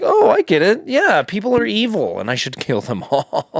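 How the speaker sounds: high, eager mock realization; mock epiphany. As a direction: gush it out like a proud convert. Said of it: "Just be like".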